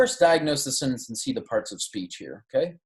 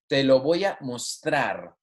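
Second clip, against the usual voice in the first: mostrar stressed on TRAR; te lo voy a mostrar, with mos-TRAR stressed; stress on second syllable. Shown as a demonstration. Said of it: "maintain the stress of this verb on the second syllable".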